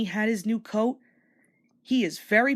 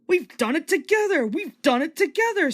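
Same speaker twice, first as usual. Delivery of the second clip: higher, joyful cry of success; triumphant; 7 semitones higher, 4 dB louder than usual. A narrator's reading. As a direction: cheer it proudly. Engines succeed together.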